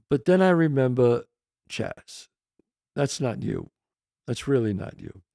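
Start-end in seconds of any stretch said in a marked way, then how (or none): 1.7-5.2 soft, low inner voice; quiet self-talk. Retold or imitated. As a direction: talk yourself down softly. Talks himself down in his mind.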